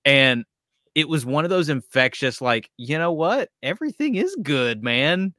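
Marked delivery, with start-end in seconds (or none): 2.8-5.3 bright upbeat mock of an ever-happy guy, pitched higher; cheerful guy. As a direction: imitate a guy for whom everything is good. Mimicking the endlessly happy guy.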